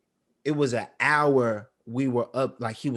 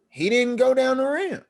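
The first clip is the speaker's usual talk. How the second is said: emotional; 13 semitones higher, 5 dB louder than usual. Real, not acted. Emotional retelling of son's failure.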